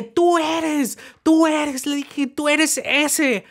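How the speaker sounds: high, insistent pointing-out; retold accusation. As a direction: nail him with it. Accusing the cellmate.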